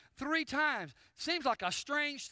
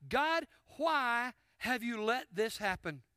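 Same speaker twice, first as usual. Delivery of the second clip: Elijah pleading. Acted. Elijah's question voiced slowly.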